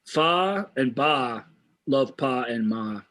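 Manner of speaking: lightly voiced dolphin learning words; slow, halting imitation of a dolphin speaking; imitated talking dolphin. Reviewer quoting the film's trained dolphins, mild dolphin imitation.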